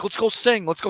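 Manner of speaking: lightly mocked player, pitched high; imitating Brad Davison. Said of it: "And then he's like".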